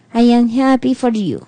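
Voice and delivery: "I am happy for you" said without any joy; flat fake joy. Shown as a demonstration. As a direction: say it like you don't mean it. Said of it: "No implica nada".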